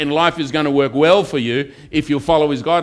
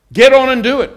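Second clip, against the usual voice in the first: higher, louder preaching push; exhorting shout; 9 semitones higher, 8 dB louder than usual. Real, not acted. Preacher urging the congregation, loud exhortation. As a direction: drive it home to the crowd.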